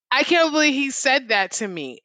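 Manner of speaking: can't stop laughing at the surprise; laughing disbelief. Real, not acted. Delighted disbelief at boss's praise.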